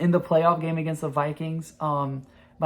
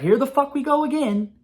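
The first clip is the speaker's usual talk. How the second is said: higher, weary groan of a fan expecting another collapse; exasperated fan; 10 semitones higher, 4 dB louder than usual. Retold or imitated. A Saints fan dreading another bad start, exasperated. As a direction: sigh it out like here we go again. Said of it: "and you're like".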